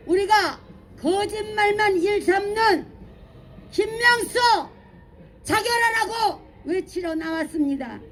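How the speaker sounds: hoarse, worn out from shouting. Real, not acted. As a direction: push through a strained, rasping throat. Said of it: "목이 다 쉬었습니다".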